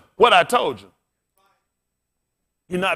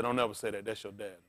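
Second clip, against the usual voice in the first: soft, low scolding from a crying mom; mother's soft plea; hushed mother; 11 semitones lower, 14 dB quieter than usual. Retold or imitated. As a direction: hush the boy gently. Crying mother hushes her son.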